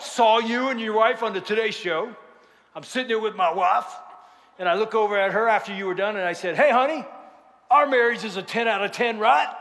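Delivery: imitated Southern storyteller; Southern accent. Husband recounts asking his wife, Southern accent. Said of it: "The dude was from deep south".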